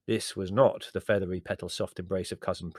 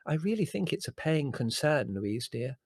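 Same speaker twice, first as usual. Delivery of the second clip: higher-pitched, earnest cousin; 7 semitones higher than usual. A narrator's reading. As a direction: press the point sincerely. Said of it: "said Prue earnestly".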